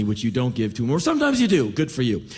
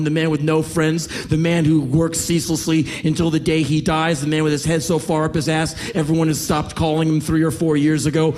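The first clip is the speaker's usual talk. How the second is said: raised, relentless harangue; mocking tirade; 4 dB louder than usual. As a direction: pile up the taunts without a break. Young panhandler's tirade mocking the comedian.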